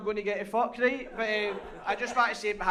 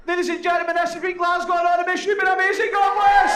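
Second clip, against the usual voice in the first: 1 showbiz sign-off; 6 semitones higher, 5 dB louder than usual. Real, not acted.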